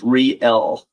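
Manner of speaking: "re-el" slowly in two parts, re then el; split pronunciation. Shown as a demonstration. Streamer corrects a misreading of the answer, "re-el" split in two. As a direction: say "re-el" as re plus el, not reel. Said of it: "but no, it was".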